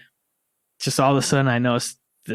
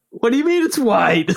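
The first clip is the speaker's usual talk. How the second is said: high, loud alarmed "what do you mean"; panicked question; 11 semitones higher, 5 dB louder than usual. Retold or imitated. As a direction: retell the panic, pitched up and loud.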